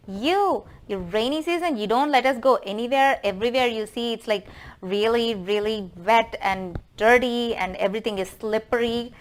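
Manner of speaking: hammed-up griping that settles as it goes; acted grumbling complaint. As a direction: berate the rainy season like a fed-up mother-in-law. Mother-in-law berates rainy season.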